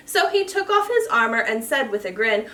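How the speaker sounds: lively storybook read-aloud; reading to children. A narrator's reading. Reads a rhyming picture book.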